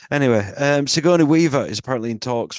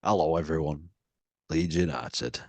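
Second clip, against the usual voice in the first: deep, subdued Leeds fan impression; low-voiced actor impression; Ralph Ineson; 7 semitones lower, 6 dB quieter than usual. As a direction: drop low and soft, like a football fan. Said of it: "Ralph Ineson, Leeds fan".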